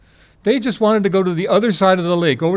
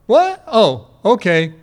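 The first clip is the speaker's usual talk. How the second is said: startled waking; 4 semitones higher, 5 dB louder, slower than usual. Retold or imitated. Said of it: "waking up going".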